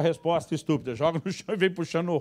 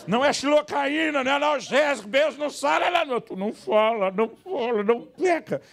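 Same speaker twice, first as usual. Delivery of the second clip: much higher, louder frantic protest; inner shout; 10 semitones higher, 5 dB louder than usual. Retold or imitated. Preacher voicing his inner outrage at the wife, much higher and louder. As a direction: rant it out in outrage. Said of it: "Eu quero dizer".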